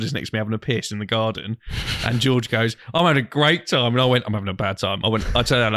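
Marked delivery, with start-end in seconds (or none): 2.9-3.9 higher, mildly cheerful imitation; upbeat retold quote. Friend having fun in the garden, mildly upbeat retelling. George's glee against speaker's unease. 4.3-5.0 mildly glum, lowered imitation; downbeat retold reply. Near panic, confiding in a friend outside, understated downbeat reply.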